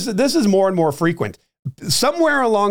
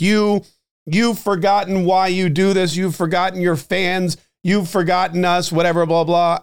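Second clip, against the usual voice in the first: mock diatribe; 2 semitones higher than usual. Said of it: "this diatribe of an email like".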